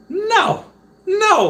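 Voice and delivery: high, loud wailing no; anguished wail. Retold or imitated. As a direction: wail in mock despair. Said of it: "I was like".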